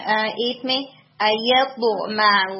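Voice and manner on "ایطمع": very slow ایطمع with a heavy ط; teacher models the heavy ط in ایطمع; heavy letter demo. Shown as a demonstration. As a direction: weigh down the ط in ایطمع. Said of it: "با کو اور heavy رکھیں".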